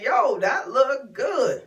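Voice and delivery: mildly excited, drawn-out admiration; slow, appreciative "yo"; admiring. Retold or imitated. Quoting her own craving reaction.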